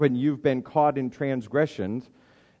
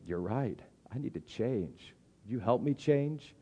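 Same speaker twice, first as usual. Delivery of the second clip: humble admission; 8 dB quieter than usual. Retold or imitated. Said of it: "be humble and say".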